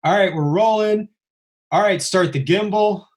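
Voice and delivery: relayed set orders, pitch lifted; crew command. Retold or imitated. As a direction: call out the cues like film crew. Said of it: "I start hearing all the commands".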